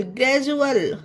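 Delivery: ग्रेजुअल with "ju" in the middle; ग्रेजुअल, D read as ज. Shown as a demonstration. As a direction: model ग्रेजुअल with a J sound. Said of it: "डी को जा का उच्चारण देंगे".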